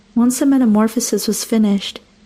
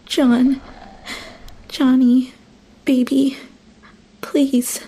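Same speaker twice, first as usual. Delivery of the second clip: pleading; 3 semitones higher, much slower than usual. A narrator's reading. Pleading with transformed husband.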